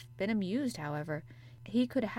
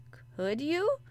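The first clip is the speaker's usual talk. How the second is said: higher, hesitant, a little frightened; faltering; 8 semitones higher than usual. A narrator's reading. Mary faltering at Colin's threat, frightened. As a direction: falter as fear creeps in. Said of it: "Mary faltered".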